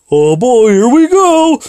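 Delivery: put-on rising high-pitched oh-boy; mock nervous anticipation. Telling of answering a hero's Skype call, high mock excitement. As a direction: let the pitch climb up into a squeak. Retelling his nerves as call arrives.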